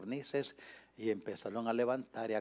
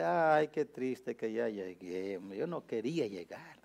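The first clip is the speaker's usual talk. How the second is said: mock crying. Preacher jokes about travellers sorry to arrive, mock crying. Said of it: "Nos ponemos a llorar y dice".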